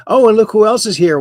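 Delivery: high, loud, quick delighted discovery; playful surprise. Pretend. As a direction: spot a friend walking in, play up the surprise. Host greets newly arrived regular.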